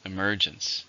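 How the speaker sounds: Emergence, with the weight on "mer"; stress on the second syllable. Shown as a demonstration. Teacher modelling the word for learners, stress on "mer". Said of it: "Three, stress on the second".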